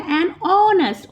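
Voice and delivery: slow example reading. Shown as a demonstration. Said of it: "vowel sound है".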